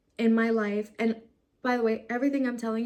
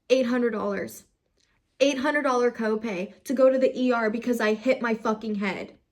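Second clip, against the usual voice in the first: louder, heated outburst; venting to viewers about the ER copay; upset; 3 dB louder than usual. Real, not acted. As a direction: let the frustration boil over. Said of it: "I am trying to calm down".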